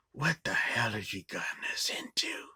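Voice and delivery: put-on Southern accent. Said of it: "thick Southern accent".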